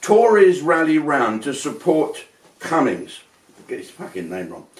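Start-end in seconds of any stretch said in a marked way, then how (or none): 0.0-3.2 slow, deliberate headline reading; a slow, measured headline read; slow news read. Shown as a demonstration. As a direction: read it like a newscaster. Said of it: "let me read something here".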